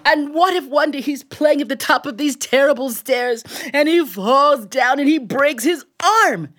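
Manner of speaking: lightly voiced grieving grocer, close to plain; grocer's lament. Grocer pleading his fear to the tailor, mild lament.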